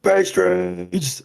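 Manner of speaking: mock yell. Player's character jumps into town, mock yelling for pastries. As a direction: call out across town in play. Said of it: "into the town and yell".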